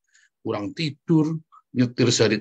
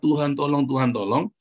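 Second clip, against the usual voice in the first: hurried prayer. Retold or imitated. Preacher mimics believers praying in haste, hurried prayer. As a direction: imitate a rushed, repetitive plea. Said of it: "tapi terburu-buru Anda berdoa".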